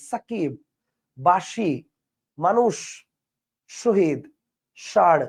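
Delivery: sharp air on the s/sh of সাকিব, বাঁশি, মানুষ, শহীদ, ষাঁড়; one word at a time, sharp hissed sibilant in সাকিব, বাঁশি, মানুষ, শহীদ, ষাঁড়; hissing sibilants. Shown as a demonstration. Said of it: "বাতাস তীক্ষ্ণভাবে বের হয়ে যায়".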